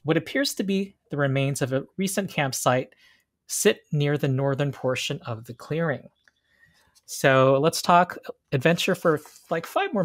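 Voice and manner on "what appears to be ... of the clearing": scene narration. Acted. GM describes the witch's glade.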